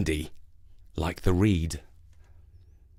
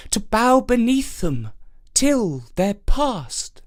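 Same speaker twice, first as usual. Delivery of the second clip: gentle reed; 8 semitones higher, slower than usual. Acted. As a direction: soothe the old oak kindly. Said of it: "and thus it whispered".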